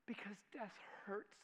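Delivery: hushed whisper. Real, not acted. Preacher to congregation about grief, whispered. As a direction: let it fall to a whisper.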